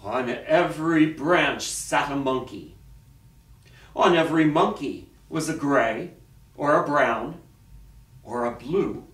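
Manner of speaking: dramatic storyteller with long pauses; story narration. A narrator's reading. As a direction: read it to children, phrase by phrase. Reads a picture story aloud.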